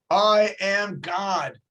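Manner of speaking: slow, drawn-out divine proclamation; lightly voiced booming God; mock voice from heaven. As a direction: announce it grandly, each word stretched. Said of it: "a loud voice comes out of heaven".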